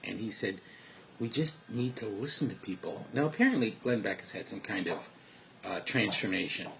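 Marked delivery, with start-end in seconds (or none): 1.2-3.1 softer, thoughtful quote with a touch of upset; subdued, earnest retelling; quiet and thoughtful. Retold or imitated. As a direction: quote him quietly, reflectively. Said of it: "he was quiet and thoughtful and a little upset".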